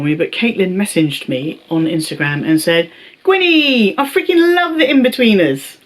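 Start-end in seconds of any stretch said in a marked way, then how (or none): 3.2-5.8 a hint of an Australian accent, higher; Aussie accent attempt. Caitlin's message to her, a hint of an Aussie accent. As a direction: start quoting the Australian YouTuber in a half Aussie accent. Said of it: "I'm not gonna do an Aussie accent".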